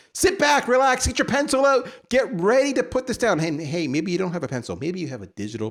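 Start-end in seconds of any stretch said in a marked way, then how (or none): 0.1-3.4 playful build-up. Acted. Mock lecture setup.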